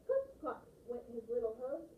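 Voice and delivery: lively, rhythmic storytelling; reading with voice. Shown as a demonstration. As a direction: make the little hooves sound playful. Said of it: "think about voice as I read this".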